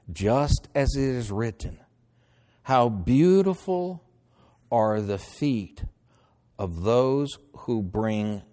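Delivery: slow, deliberate verse reading; measured Bible reading, stretching key words; scripture reading. Acted. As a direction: read it out in spaced, drawn-out phrases. Reads scripture aloud.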